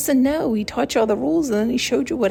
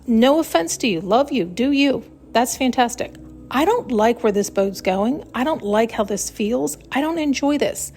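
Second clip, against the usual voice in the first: sassy brush-off; 4 semitones higher than usual. Pretend. Sassy farewell.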